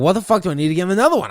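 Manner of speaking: mildly indignant retelling; retold exasperation. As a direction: fire off the complaint in disbelief. Retelling his angry reaction to retest.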